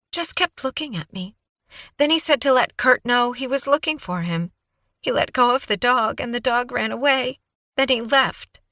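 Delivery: put-on high, breathless young woman babbling on; Kaylee's eager voice. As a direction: gush it out like a nervous, eager witness. Kaylee recounting.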